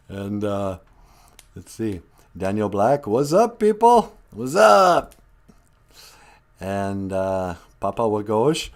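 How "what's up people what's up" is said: excited greeting. Real, not acted. Greeting viewers playfully.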